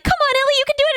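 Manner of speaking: high, cheery coaxing voice; encouraging friends. Retold or imitated. Chat friends urging Ellie to keep working, high cheery coaxing. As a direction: pump her up sweetly.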